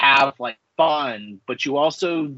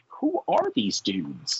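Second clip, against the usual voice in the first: eye-rolling disbelief; 8 semitones lower, 5 dB quieter, much slower than usual. Retold or imitated. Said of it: "I just roll my eyes".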